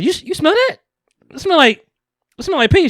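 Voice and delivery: high squeaky cartoon girl. Animated girl sniffing the air, high cartoon voice.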